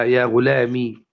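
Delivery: slow يا غلامي closing on "i"; kasra without ya. Shown as a demonstration. Teacher recapping forms, kasra ending on slow يا غلامي. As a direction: end يا غلامي on the meem's kasra. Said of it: "حذفها وكسر ما قبلها".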